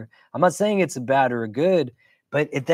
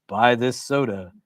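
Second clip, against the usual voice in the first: monotone ad voice. Retold or imitated. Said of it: "a monotonous voice is like".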